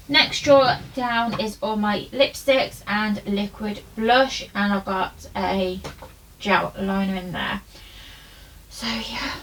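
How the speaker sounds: slightly out of breath, light panting. Real, not acted. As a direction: talk while catching your breath. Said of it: "sorry, I'm out of breath".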